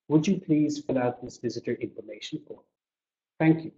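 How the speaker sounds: gentle polite question ending in thanks. Shown as a demonstration. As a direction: ask kindly, not ordering. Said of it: "I made a question out of it".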